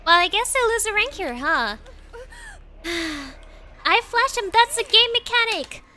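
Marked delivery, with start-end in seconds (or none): 3.9-5.8 high, loud outraged protest; indignant shouting. Real, not acted. Streamer shouting her defense to the angry killer. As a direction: defend yourself, louder and higher.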